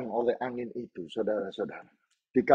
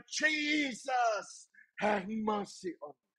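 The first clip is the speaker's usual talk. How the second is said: crying out; 8 semitones higher, 8 dB quieter, much slower than usual. Acted. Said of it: "Semakin keras dia berteriak".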